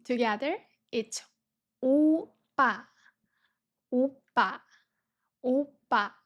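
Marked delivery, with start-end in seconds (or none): 1.8-6.1 oppa said slowly, falling at the end; oppa, each syllable clear; Korean oppa. Shown as a demonstration. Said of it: "Do you recognize this word?".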